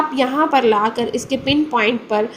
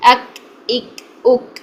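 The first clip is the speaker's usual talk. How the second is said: quick fluent drill; slower than usual. Shown as a demonstration. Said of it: "जल्दी से इसको रवा में पढ़ते हैं".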